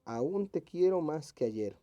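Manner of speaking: measured test-option reading, words drawn out; slow, careful reading aloud. Shown as a demonstration. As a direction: read it out slowly and deliberately. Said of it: "que esté correctamente escrita".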